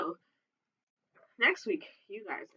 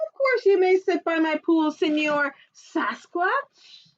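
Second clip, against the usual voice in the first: lifeguard voice; 4 semitones higher than usual. Acted. Lifeguard welcomes the Sasquatch, high and cheerful. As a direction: grant permission brightly. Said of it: "the other one said".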